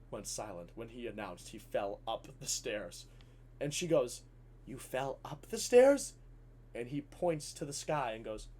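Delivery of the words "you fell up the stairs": slow, rising incredulous question; drawn-out baffled question. Retold or imitated. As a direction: echo it back in slow, higher disbelief. Baffled teacher echoes him.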